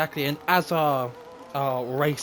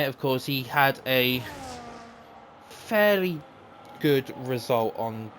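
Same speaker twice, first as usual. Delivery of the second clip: live play-by-play; 3 semitones higher than usual. Acted. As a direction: race commentator calling laps. Live commentary of race laps.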